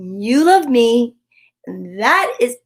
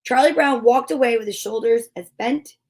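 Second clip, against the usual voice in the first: gentle read-aloud storytelling voice; story narration. A narrator's reading. Host reading a Charlie Brown Christmas story to viewers, storytelling voice. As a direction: read it like a bedtime story for kids.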